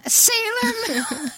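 high, slow, gleeful cry; light up at the name; excited. Real, not acted.

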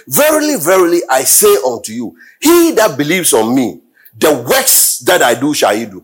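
ringing verily, then steady reading; solemn scripture read; preached scripture. Acted. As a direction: proclaim the verse. Preacher reads the verse.

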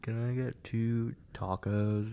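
slow, careful, overly plain English order "Can I get two tacos?"; lightly put-on gringo voice, ordering slowly; mock white customer. Friend mocking himself ordering at a Mexican market, in a slow, mock white voice. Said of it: "act as white as possible".

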